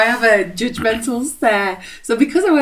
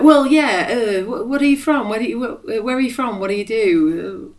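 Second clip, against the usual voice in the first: mock flustered; 4 semitones higher, 3 dB louder than usual. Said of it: "he was just like".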